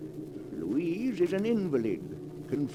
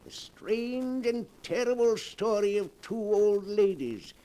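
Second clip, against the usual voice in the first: sinister storyteller host; 2 semitones higher than usual. Acted. Horror host introduces the tale.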